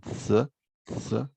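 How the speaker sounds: "Z" as an isolated hissed sound, repeated; Spanish-style Z sound. Shown as a demonstration. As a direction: say "Z" as a sound, not the letter name. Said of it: "el sonido como la Z española". (sonido de "Z" como la zeta española)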